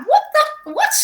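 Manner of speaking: high, startled disbelief; taken aback. Retold or imitated. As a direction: retell it as a baffled double take. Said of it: "I was so taken aback".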